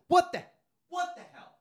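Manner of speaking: high-pitched outraged shriek; mock hysterical yell; yelling woman. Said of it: "she starts yelling".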